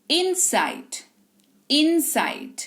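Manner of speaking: इनसाइड with a quick short "in". Shown as a demonstration. Teacher showing the small i ends at once, short "in". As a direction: cut the first vowel of इनसाइड short. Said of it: "ई तुरंत खत्म हुआ".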